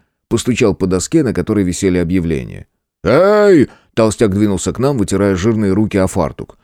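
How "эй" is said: shout. A narrator's reading. Innkeeper shouting at intruders.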